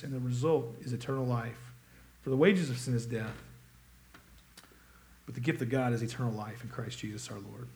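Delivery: measured, solemn Bible reading, slowing on key words; scripture reading. Acted. Reads scripture before the sermon.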